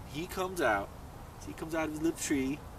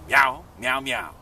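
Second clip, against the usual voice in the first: imitated cat meows; 7 dB louder, slower than usual. Toad in cat disguise under the tree, mock meowing. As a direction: pretend cat call, first meow loudest. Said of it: "and he goes".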